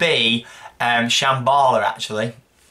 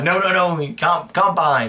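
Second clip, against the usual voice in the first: Italian shop lady; 5 semitones higher than usual. Retold or imitated. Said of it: "And the lady was like".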